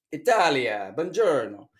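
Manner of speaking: put-on Italian accent, exuberant greeting; mock Italian accent. Job-board host greets Italy like Roberto Benigni, mock Italian accent. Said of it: "I wanna talk like Roberto Benigni".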